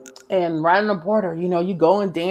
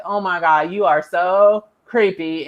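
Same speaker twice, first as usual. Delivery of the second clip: creeped out; 2 semitones lower than usual. Retold or imitated. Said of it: "you be like".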